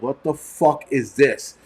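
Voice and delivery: slow, drawn-out disbelief; retold disbelief. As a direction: imitate a stunned, slow reaction. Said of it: "we all looked at each other like".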